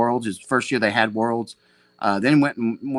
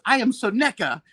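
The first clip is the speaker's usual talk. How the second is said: higher, proud foreign-voiced boast; Seneca impression; 8 semitones higher, 3 dB louder than usual. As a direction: announce yourself like a legend. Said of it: "I got a good Seneca impression".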